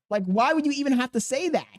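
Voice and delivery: can't believe he said that; incredulous. Real, not acted. Reacting to racist clip.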